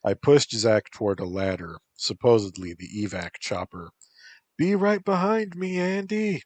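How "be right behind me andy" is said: mild scream. A narrator's reading. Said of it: "Zach screamed".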